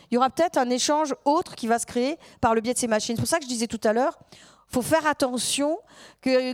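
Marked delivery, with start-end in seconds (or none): 4.7-5.8 whisper. Real, not acted. Emphatic warning.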